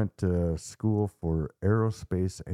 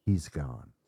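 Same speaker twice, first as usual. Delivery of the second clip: calm; 3 semitones lower than usual. Retold or imitated. Boy announces the demon has left, calm retold tone. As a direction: say it with understated calm. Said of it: "in a calm tone says".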